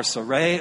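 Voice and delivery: Sarai as "suh-RAY", short first syllable; name variant. Shown as a demonstration. Preacher listing what he might call her, Sarai as "suh-RAY". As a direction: pronounce Sarai with a light start, "suh-ray". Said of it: "I might call her".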